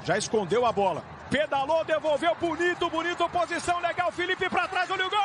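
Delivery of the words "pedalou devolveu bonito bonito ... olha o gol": rising excitement. Real, not acted. Dribbling build-up.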